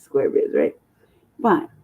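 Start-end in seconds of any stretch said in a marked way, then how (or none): 0.0-0.5 whispered echo. Acted. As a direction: let "square biz" fall away to a whisper. Mocking chant about square life.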